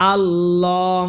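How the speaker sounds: আল্লাহ with its second vowel drawn out evenly; one-alif stretch. Shown as a demonstration. Teacher explaining the lam, আল্লাহ with a stretched vowel. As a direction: hold the "লা" of আল্লাহ long. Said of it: "ল এখানে এক আলিফ টান দিতে হবে".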